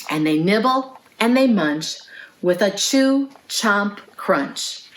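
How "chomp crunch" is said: plain reading voice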